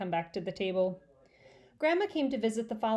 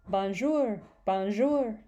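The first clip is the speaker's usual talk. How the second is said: squawky parrot-like bonjour, louder; bird voice; 4 dB louder, much slower than usual. Acted. Mynah bird squawking at Peter. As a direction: mimic a mynah bird calling out. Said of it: "in bird voice".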